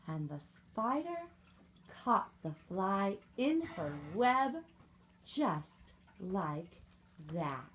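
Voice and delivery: slow, measured storybook narration; reading to children. A narrator's reading. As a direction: pace it out for young listeners, pausing between phrases. Reads picture book to children.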